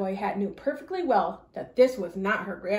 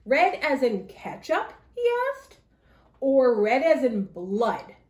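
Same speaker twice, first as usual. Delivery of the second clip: sly wolf voice; 4 dB louder than usual. Acted. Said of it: "wolf menacing question".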